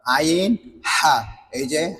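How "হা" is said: হা from mid-throat, strongly aspirated; isolated throaty হা; demonstrating articulation. Shown as a demonstration. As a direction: push হা out from the middle of the throat. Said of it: "হলকের মধ্যখান থেকে".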